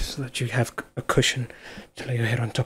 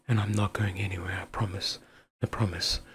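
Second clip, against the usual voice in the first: hushed, tender promise; soft reassurance; 5 dB quieter than usual. Acted. Promising a sick loved one to stay, softly reassuring. Comforting someone through an episode.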